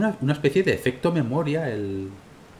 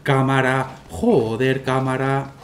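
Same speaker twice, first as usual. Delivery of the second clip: frustrated yelling; 3 semitones higher, much slower than usual. Real, not acted. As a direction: bark at the camera in frustration. Fighting the camera. (gritos de frustración)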